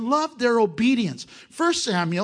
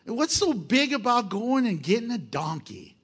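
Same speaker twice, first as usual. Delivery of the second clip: doubting listener; 5 semitones higher than usual. Retold or imitated. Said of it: "And you might be going".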